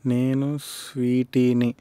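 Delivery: menacing movie punchline. Acted. Punch dialogue performed as movie line.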